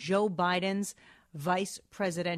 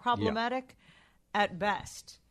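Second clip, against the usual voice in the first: PROBLEMATIC punched louder with a rise; stressed quote; 3 semitones higher, 4 dB louder, slower than usual. Shown as a demonstration. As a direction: lean on Problematic, then drop at best. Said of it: "this is a good Fauci quote".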